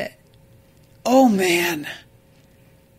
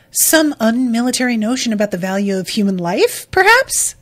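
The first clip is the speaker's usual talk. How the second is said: heated. Acted. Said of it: "said Cordelia hotly".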